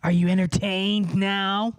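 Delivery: slow mocking showman; mock the crowd, drawn out; silly clown. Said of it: "my classic bit".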